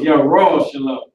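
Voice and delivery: "Yahweh Shalom" as yah-RAW-sha-lum, long RAW; Hebrew pronunciation. Shown as a demonstration. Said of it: "trying to make their words different".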